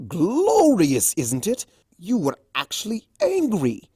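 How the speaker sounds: excited. A narrator's reading. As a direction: revel in the memory. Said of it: "he said excitedly".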